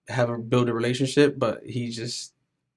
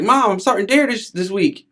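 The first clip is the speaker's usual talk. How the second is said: put-on high, louder kid's announcement; imitated excited son; 9 semitones higher, 7 dB louder than usual. Son telling his mom his school news, excitedly. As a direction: voice a child bursting with news, pitched up.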